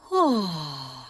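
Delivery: low, open-throated yawning sigh; fake yawn. Shown as a demonstration. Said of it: "do a fake yawn".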